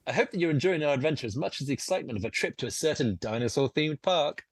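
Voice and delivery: grand, delighted host's delivery; John Hammond. Acted. Game master answers as John Hammond, lightly theatrical.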